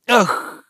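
high sharp "Ах!" of strong vexation; exasperated cry. A narrator's reading. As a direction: burst out in vexed despair. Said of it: "с сильной досадой произнёс Обломов". (громкий досадливый вскрик)

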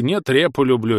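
mimicking his stubborn whine; mocking her husband. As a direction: parrot the old man mockingly. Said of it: "А ты". (передразнивает деда)

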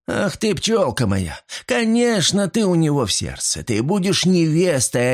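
joyful. Acted. Debby and Sylvia rejoice.

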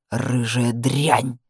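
low, very slow, bitter; spat with annoyance. Acted. Man leans over fallen woman, low slow bitter. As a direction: grind it out with annoyance and anger. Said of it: "процедил он с досадой и злостью".

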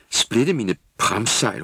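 slow, loud sailor's curse; shouted oath. Acted. Girl elf shouting a sailor's oath, loud and slow. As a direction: bellow it like an old salt. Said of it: "råbte Tulle".

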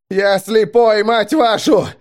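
high, loud cursing shout; furious scream. A narrator's reading. Driver blind in fog screaming at the crew. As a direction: curse at the top of the voice. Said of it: "закричал Грач".

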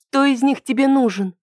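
tense, strained question. A narrator's reading. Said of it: "напряжённо спросила Ида".

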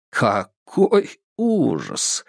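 mocking. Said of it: "с насмешкой проговорил он".

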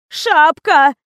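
loud, high wailing cry; howled. A narrator's reading. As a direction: wail the word out in despair. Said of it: "взвыла Лиза". (взвыла, громко и высоко)

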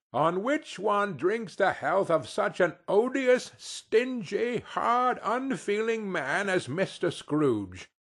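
a touch of an indignant mother; scornful wife. Acted. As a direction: spit out each insult. Mrs Cratchit scolds about Scrooge.

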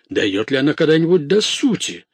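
high, loud impatient question; exasperated outburst. A narrator's reading. Lord wanting the maid to get to the point, exasperated. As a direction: demand it at the end of patience. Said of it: "вскричал Манфред".

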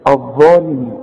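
الظالمين low, with a long DHAA; full alif. Shown as a demonstration. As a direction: hold the heavy A of الظالمين. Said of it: "الف كاملة".

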